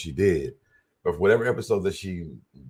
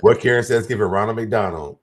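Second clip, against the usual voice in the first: laughing; 5 dB louder than usual. Real, not acted. Joking with friends.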